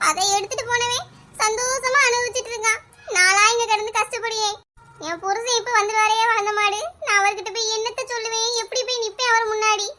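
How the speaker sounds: acted tearful despair; mildly sobbing complaint; weepy lament. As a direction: fret tearfully over facing the husband. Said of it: "ஏன் அழுதுகிட்டே கிடக்கா".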